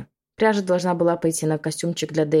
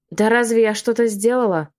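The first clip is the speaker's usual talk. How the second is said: condescending; 4 semitones higher, 4 dB louder than usual. Acted. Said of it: "Снисходительно проговорила Клаудия".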